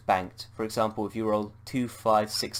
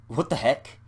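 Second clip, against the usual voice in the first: exclaiming; 4 semitones higher, 4 dB louder than usual. Acted. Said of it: "he exclaims".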